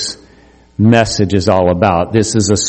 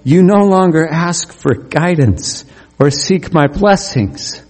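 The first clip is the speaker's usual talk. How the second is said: voice of God; 7 semitones higher than usual. Acted. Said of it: "And it says".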